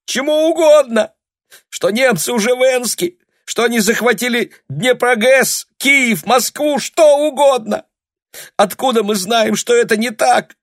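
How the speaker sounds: very high, loud desperate cry; hysterical tearful shout. A narrator's reading. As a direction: keep screaming through tears. Tanya's hysterical outburst continues. (истерический крик)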